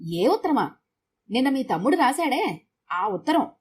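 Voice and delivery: "ఉత్తరమా" thrown back, then "ఆ ఉత్తరం" leaned on firmly; pointed emphasis. A narrator's reading. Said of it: "అన్నది ఒత్తి పలుకుతూ". ("ఆ ఉత్తరం" ఒత్తి పలుకుతూ)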